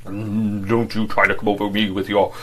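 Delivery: husky and defensive; lightly husky protest; husky defence. Acted. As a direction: defend himself hoarsely, eyes down. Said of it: "defended himself huskily".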